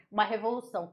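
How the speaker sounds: ordinary delivery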